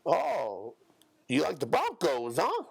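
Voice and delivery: high, chirpy mock greeting with laughs; mocking small-talker. Mocking a random coworker's small talk, high and chirpy. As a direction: parody a chatty coworker. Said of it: "some random motherfucker".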